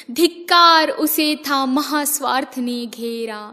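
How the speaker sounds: first take, धिक्कार thrown hard; emphatic declaim. Acted. Repeated line, first take stronger.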